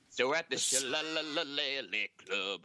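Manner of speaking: slow Irish brogue; drawn-out Irish storyteller; Irish accent. Pretend. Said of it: "we're done with the accent".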